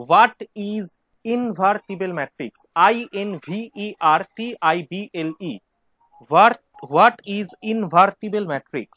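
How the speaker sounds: very slow, word-by-word dictation. Real, not acted. Teacher dictating a question for students to write, slow dictation. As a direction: spell it out slowly for note-takers.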